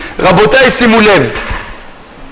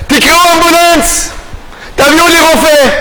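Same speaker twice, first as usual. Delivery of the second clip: higher-pitched call for help; raised, urgent mock cry; child crying out; 5 semitones higher than usual. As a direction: imitate a hurt child calling out. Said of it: "הילד בן שלוש צועק".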